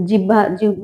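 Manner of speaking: "জিহ্বা" as jib-ba, no glide; common mispronunciation. Shown as a demonstration. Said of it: "যেটা আমরা বলি".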